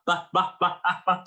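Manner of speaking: loud "ba" out of the side of the mouth; side-of-mouth placement. Shown as a demonstration. Teacher showing placement, side-mouthed voice. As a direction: speak from one side of the mouth. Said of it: "to the side and kinda do a voice".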